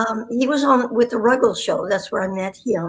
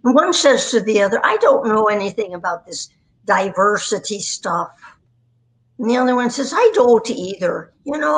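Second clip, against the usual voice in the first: lightly put-on Irish brogue; Irish pub-goer's lilt; Irish accent. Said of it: "with an accent".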